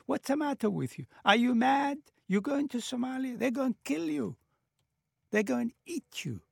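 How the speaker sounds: high-pitched mock disbelief; imitating berserk alarm. Relatives warning him off returning to Somalia, berserk alarm. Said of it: "absolutely berserk, crazy. They would say".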